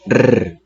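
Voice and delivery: a sustained trilled rrr; rolled r sound. Shown as a demonstration. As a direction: roll the tongue on a long rrr. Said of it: "cuando suena remarcada y continua".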